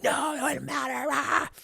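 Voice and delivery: high, frustrated snap; upset brush-off. Retold or imitated. Imitating David rejecting comfort, high and frustrated. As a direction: wave the praise away, upset. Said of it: "He's like".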